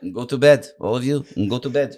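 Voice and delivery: lightly voiced accented football manager; Mourinho. Manager sends the Chelsea players to bed, imitated command. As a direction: order the squad off, impersonating the boss. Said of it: "he said to everybody".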